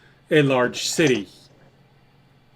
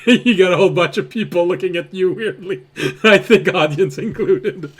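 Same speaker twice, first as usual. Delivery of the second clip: laughing while talking; words through giggles; 5 semitones higher, 4 dB louder than usual. Real, not acted. GM laughing at the table.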